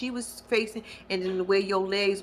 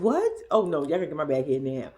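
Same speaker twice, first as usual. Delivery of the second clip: mock panic; 5 semitones lower than usual. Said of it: "I would've went in a straight panic".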